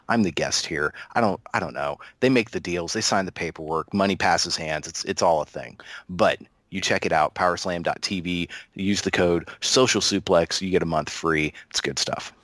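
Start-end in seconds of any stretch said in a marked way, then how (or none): 6.1-11.5 ad read. Acted. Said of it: "do you want to do the ad read again".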